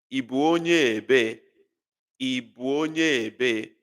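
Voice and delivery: "Ị bụ onye ebe?" said slowly and clearly; slow, deliberate "onye" with a long vowel; Igbo question modelled. Shown as a demonstration. Teacher modelling the Igbo question for students. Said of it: "a question like".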